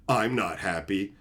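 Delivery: slow, low imitation of a sore loser; mock miserable. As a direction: sulk it out slowly, imitating him. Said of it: "he's just so miserable about it".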